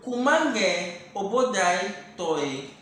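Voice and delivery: "kumange obodai toy" stretched out very slowly; very slow demo. Shown as a demonstration. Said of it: "Kumange kunya toy or".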